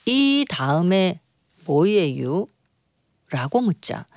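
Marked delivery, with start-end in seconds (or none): 0.1-2.5 slow Chungcheong drawl; Chungcheong dialect. Acted. Quiz host quoting one singer asking another, in Chungcheong dialect. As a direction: stretch it out in an easy Chungcheong dialect. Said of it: "가수에게 충청도 사투리로".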